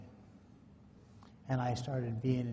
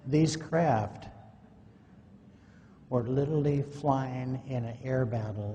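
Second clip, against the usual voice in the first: these craft said louder, pushed out to the room; louder, projecting; 5 dB louder than usual. Shown as a demonstration. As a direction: project it so the back row hears. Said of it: "is that louder?".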